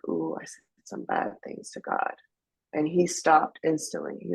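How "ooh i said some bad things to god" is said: whispered, guilty admission; sheepish whisper. Retold or imitated. Whispering to her husband that she cursed God. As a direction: confess it under your breath like a guilty kid. Sheepish confession while walking.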